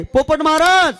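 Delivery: talking to parrot. Acted. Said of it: "त्या पोपटाशी बोलायची".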